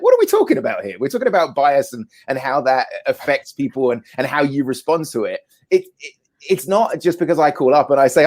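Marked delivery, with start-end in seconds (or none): 0.0-5.4 retold indignant reply. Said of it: "I got really angry with the person".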